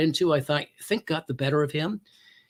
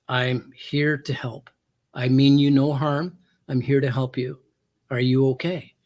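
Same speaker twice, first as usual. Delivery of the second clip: non-threatening; 2 semitones lower than usual. Retold or imitated. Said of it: "non-threatening".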